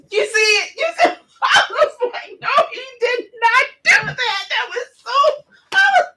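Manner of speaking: high, squealing words through laughter; crying with laughter. Real, not acted. Scene: vlogger losing it at the name joke, squealing laughter. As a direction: laugh until it hurts.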